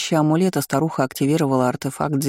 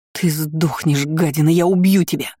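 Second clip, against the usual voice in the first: furious cry. Acted. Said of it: "выкрикнула".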